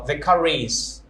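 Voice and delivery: car and is joined by an R; linking R. Shown as a demonstration. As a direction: sound the R of car into is. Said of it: "if the next word starts".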